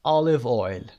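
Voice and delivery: "Olive oil" with a short, open "a"-like vowel: "alev oil"; alternate pronunciation. Shown as a demonstration. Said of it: "به این صورت هم تلفظش هست".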